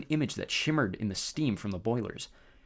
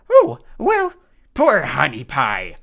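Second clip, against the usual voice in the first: very high squeaky fake lady voice; falsetto bride voice; 3 semitones higher, 13 dB louder, much slower than usual. A narrator's reading. Grover disguised as bride.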